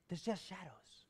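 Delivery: breathy whispered aside. Shown as a demonstration. Preacher telling the congregation, whispered. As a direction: lean in and whisper it. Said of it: "preacher drops to whisper".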